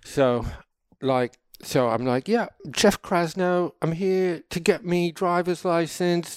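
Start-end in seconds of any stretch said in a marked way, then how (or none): 2.3-6.4 lightly put-on British accent, pitched up; playing at being British. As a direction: introduce yourself in a slightly higher mock-British voice. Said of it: "with a British accent".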